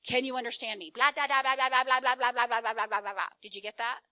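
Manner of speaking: very loud rapid blah-blah nagging, mimicked; mock rant imitation. Husband mimicking how wife sounds to him, loud mock rant. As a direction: blast it out like an unstoppable tirade, then demand a reply. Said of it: "this is how it sounds to me".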